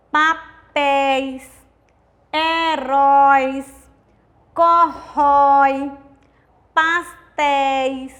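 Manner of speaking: each example word drawn out very slowly, open diphthong held; 慢读示范. Shown as a demonstration. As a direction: read Chapéu, papéis, heróis, corrói slowly, one word at a time for the class. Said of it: "Vejam os exemplos".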